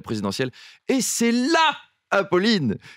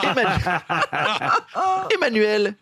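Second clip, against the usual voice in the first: town crier; 5 semitones higher than usual. Acted. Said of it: "B F M Business existait déjà au Moyen-Âge".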